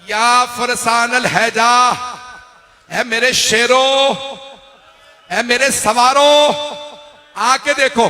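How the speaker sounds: high, slow, drawn-out call. Retold or imitated. Imam calling his fallen riders, high slow lamenting call. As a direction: cry out to the absent warriors. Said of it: "मौला ने आवाज दी".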